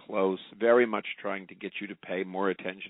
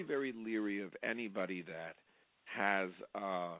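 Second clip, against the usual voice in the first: while sipping tea; 10 dB quieter than usual. Real, not acted. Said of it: "I'm sipping tea".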